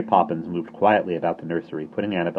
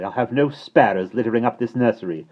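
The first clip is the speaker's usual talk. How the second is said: angry; 4 semitones higher, 5 dB louder than usual. A narrator's reading. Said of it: "she said angrily".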